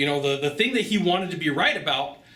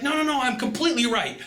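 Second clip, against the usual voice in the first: stubborn salesman; 9 semitones higher than usual. Retold or imitated. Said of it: "He's like".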